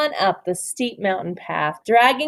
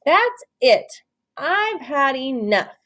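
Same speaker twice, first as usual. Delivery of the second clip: exhausted; 3 semitones higher, slower than usual. Acted.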